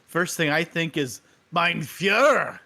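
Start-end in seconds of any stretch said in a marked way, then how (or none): 1.5-2.6 slow mock German "Mein Führer"; drawn-out hammed German accent. Mocking a German leader in a German accent. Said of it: "what'd you think of my German accent".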